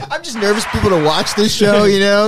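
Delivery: giggling through the words; laughing. Real, not acted. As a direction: talk while still laughing. Laughing while talking.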